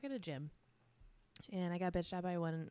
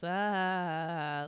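imitating a monotone old man's single dry laugh; one flat, dry "ah" of a laugh; deadpan laugh; 2 semitones lower, 4 dB louder than usual. Coworker imitating an old gym member's dry laugh, deadpan. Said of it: "He even laughs like this".

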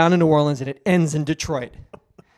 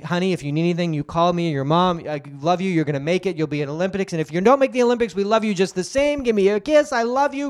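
loving father; faster than usual. Acted. Father to daughter.

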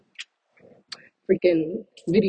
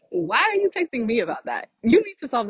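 laughing disbelief; 8 semitones higher than usual. Real, not acted.

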